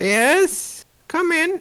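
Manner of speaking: very high-pitched, piping voice. Game master voicing the mayor answering a knock, in a high-pitched voice. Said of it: "greeted by a high-pitched voice that goes".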